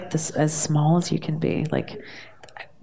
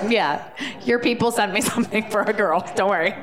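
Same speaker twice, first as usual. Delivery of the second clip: laughing reply; 2 semitones higher, faster than usual. Retold or imitated. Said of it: "I was like".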